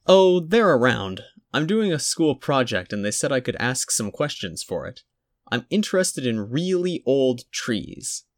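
put-on high small boy's voice; a polite little boy calling out; child's voice. A narrator's reading. Small boy at reception, high and polite.

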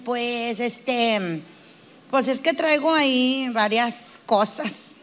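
halting, slow and reluctant; mildly sheepish new therapy patient; hesitant, timid patient. Acted. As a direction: hedge with drawn-out fillers, a touch fearful. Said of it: "al principio estás como, como miedoso".

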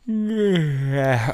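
long audible yawn. Real, not acted. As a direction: let out a big yawn. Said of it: "sorry, I was yawning".

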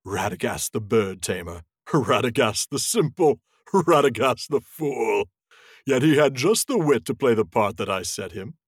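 slow, lightly voiced scornful wizard; a touch of a proud, sneering wizard; scornful Saruman. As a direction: lay out his titles with mild contempt. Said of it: "no longer concealed his scorn".

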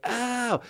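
high "ow" cry; imitated outburst. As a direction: yelp it up high. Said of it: "I would laugh so hard".

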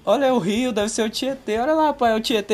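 high, playful tour-guide tease; mock-chirpy pointing out sights to a scared dad; teasing cheerful.

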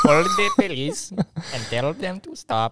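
mock Indian accent echoing the caller; teasing Indian-accent echo; Indian scammer echo.

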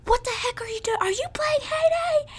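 high, mock exasperated boyfriend voice; imitating boyfriend. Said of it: "And he was like".

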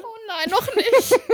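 high, slow words through laughter; stretched high laughing reply. Real, not acted. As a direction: answer while still giggling. Still laughing at the teasing.

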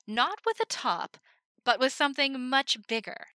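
loud, high ringmaster voice; showman patter. Acted. Himmel presenting the spinning top, loud showman voice. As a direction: sell the trick to the crowd.

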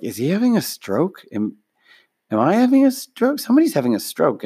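high-pitched, puzzled alarm of a retold crowd; mock alarm. Baffled audience wondering about the speaker's sudden change, mock alarm. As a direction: pitch leaps up in bewildered questioning.

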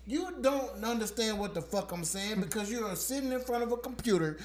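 angry and loud; mock furious caller. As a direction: bark at the agent, pretend furious. Acted quarrel with phone agent.

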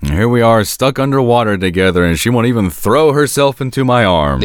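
lightly hammy theatrical delivery; hammy stage actor. Retold or imitated. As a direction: play it like a corny stage actor, mildly. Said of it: "puts on that faux thespian voice".

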